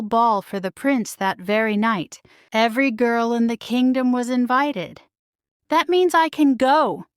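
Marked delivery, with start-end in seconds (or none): 5.7-7.1 high, eager burst of hope; eager cry. A narrator's reading. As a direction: blurt it out full of hope. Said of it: "Cinderella cried".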